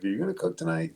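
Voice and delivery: high-pitched mock nagging question; teasing grief. Husband ribbing his busy wife about dinner, teasing. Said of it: "always give her grief".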